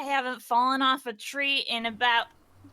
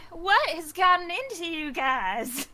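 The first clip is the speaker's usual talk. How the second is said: worried Mila; 5 semitones higher than usual. Acted. Mila asking the group where Al is, mildly anxious higher voice. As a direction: fret about who has died.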